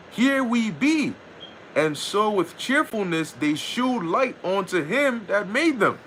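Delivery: slow, measured Bible reading; slow King James reading voice; scripture reading. Acted. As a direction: read the verse out solemnly like scripture. Reads scripture verses aloud.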